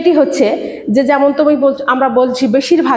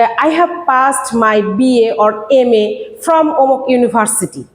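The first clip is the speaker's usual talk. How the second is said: 1 slow model answer; much slower than usual. Shown as a demonstration. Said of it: "যে".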